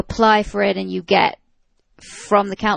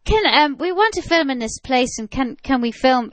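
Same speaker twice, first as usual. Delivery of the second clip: put-on unintended touch of Irish accent; slipping into Irish; 3 semitones higher than usual. Film-maker asks the village priest for permission, accidental Irish accent. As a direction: drift into a light Irish lilt. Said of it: "I just went Irish then".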